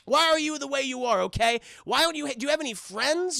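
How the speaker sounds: retold incredulous questioning. Acting out a puzzled coworker grilling Dredd, incredulous. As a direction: pester him, voice lifted, in mock disbelief.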